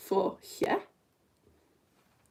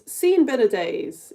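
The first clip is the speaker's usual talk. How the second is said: slow emphasis; 4 dB louder, much slower than usual. Shown as a demonstration. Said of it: "Shakespeare made up the phrase".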